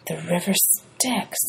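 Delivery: soft, slow whispered murmur; whispered disgust. Acted. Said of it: "Annabeth murmured".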